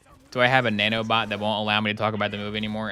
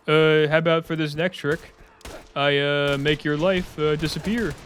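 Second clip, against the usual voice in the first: higher put-on goofy voice, pleased with himself; Randy impression; 5 semitones higher than usual. Randy phones the streamer to show his trick, goofy higher voice. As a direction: play Randy as a cheery villain calling up. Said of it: "That's my new Randy impression".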